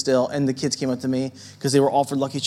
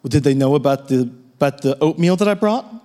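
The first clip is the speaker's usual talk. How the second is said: deadpan; 2 semitones lower, faster than usual. Retold or imitated. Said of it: "with a straight face".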